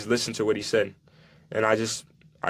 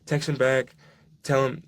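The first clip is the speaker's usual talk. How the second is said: lightly voiced mom, pitched higher; a hint of an indignant mother, raised pitch; voicing his mom; 3 semitones higher than usual. Mom telling her son to text the coach, higher indignant voice.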